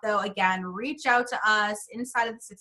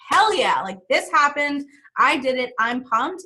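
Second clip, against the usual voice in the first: excited; 3 semitones higher, 3 dB louder than usual. Retold or imitated. Acting out celebrating a win.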